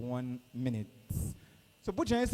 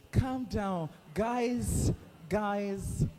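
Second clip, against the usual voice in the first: excited; 5 semitones higher, much slower than usual. Real, not acted. Calming eager students.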